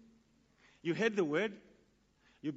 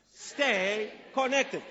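repeating louder; 3 semitones higher, 4 dB louder, much slower than usual. Shown as a demonstration. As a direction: stay connected slow and a little louder.

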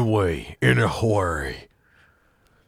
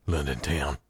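attempted British accent; 5 semitones lower, 7 dB quieter than usual. Shown as a demonstration. Host showing off to a London guest, bad British accent. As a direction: have a feeble go at a British accent. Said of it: "How do you think of my British impression?".

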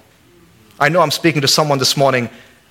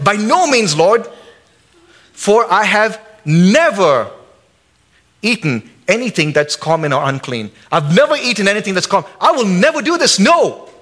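high, pleading refusal, stretched on never; Peter protesting; 4 semitones higher than usual. Acted. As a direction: Peter recoiling from unclean food. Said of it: "But Peter said".

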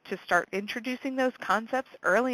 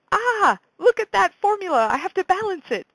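high, loud bored whine; bored student voice; 10 semitones higher, 6 dB louder than usual. Retold or imitated.

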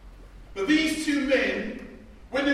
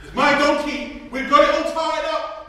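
mock possessive owner; 5 semitones higher, 7 dB louder than usual.

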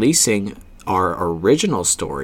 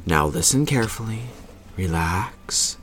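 right in your ear; 7 dB quieter than usual. Acted. Parent settling kids for story.

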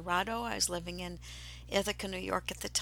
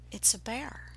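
whispered realization; 5 dB quieter than usual. Retold or imitated. Startled realization facing bear.

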